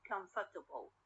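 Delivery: comfortable with stress kept on COM; stress on first syllable. Shown as a demonstration. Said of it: "it is still at the word, at the first syllable".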